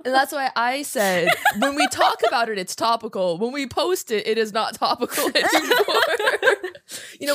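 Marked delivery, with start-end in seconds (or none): 1.6-6.6 laughing quote. Retold or imitated. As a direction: retell it laughing. Quoting self, laughing.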